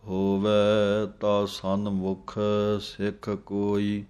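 slow, measured reading of the hymn line with pauses; slow scripture recitation. Shown as a demonstration. Teacher reading the hymn line slowly for students. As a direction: recite each phrase slowly and deliberately. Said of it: "ਦੋਵਾਂ ਦਲਾਈਆਂ ਦੀ ਆਵਾਜ਼ ਦੇ ਕੇ ਬੋਲਣਾ ਹੈ".

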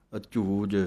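ਅਝੂਜ said tight with a firm ਝ and final ਜ; tight pronunciation. Shown as a demonstration. Teacher models ਅਝੂਜ for students, said tightly and firmly. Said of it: "ਜਿੰਨਾ ਕੱਸ ਕੇ ਬੋਲੋਗੇ".

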